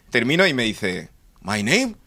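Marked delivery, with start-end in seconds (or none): 1.4-2.0 very slow, careful English, lightly voiced; English schoolboy. Classmate Adrian introducing himself in slow English. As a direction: spell it out slowly like a kid.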